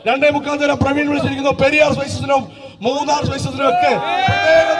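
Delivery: auctioneer. Acted. Auctioneer thanking sponsors, calling bids.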